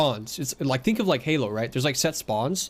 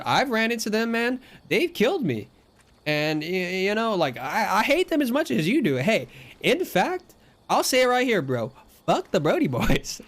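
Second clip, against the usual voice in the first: placating protest; 7 semitones higher than usual. Retold or imitated. Player placating an annoyed stranger, high placating protest. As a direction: plead your loyalty in a raised, stretched voice.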